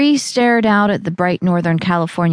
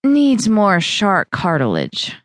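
hoarse; slower than usual. Acted. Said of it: "Bree said hoarsely".

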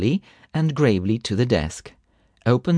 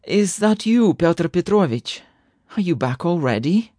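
higher-pitched woman's questions; lightly voiced wife, raised in pitch; rapid articulation; 7 semitones higher than usual. A narrator's reading. Wife roused as husband returns, quick questioning. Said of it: "A woman's voice articulated rapidly".

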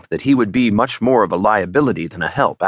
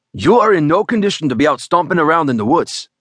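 worried protest; 7 semitones higher than usual. Acted. Juan protests to injured man.

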